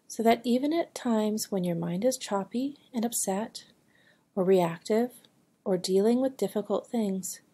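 calm, measured meditation voice with long pauses; guided meditation. Acted. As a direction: guide a listener gently into stillness, phrase by phrase. (unhurried guided meditation delivery)

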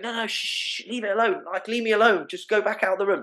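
mock irritated mother in labour; labouring woman. Labouring woman telling the panicking visitor to leave, lightly voiced and irritated. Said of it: "the woman might be going".

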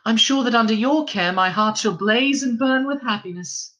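whispered, airy and unvoiced; breathy whisper. A narrator's reading. The star whispering her thanks to the wife. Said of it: "said the star".

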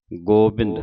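"ਗੋਬਿੰਦ" with a long o in the first syllable; careful pronunciation. Shown as a demonstration. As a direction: say "ਗੋਬਿੰਦ" as go-bind, o held full. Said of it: "ਹੋੜੇ ਦੇ ਨਾਲ".

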